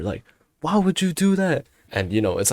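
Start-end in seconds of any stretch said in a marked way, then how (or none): 0.6-1.7 high-pitched mock protest; joking yell. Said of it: "I literally yell at her".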